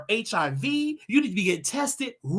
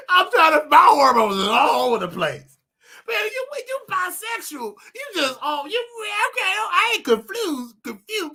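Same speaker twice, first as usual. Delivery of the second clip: laughing fit; 9 semitones higher, 4 dB louder than usual. Real, not acted. Giggling over his own hormones.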